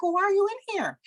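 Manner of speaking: high-pitched retold mom scolding; exasperated mom. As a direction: demand a reason from an intruding daughter. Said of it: "normally that's how I would talk to her".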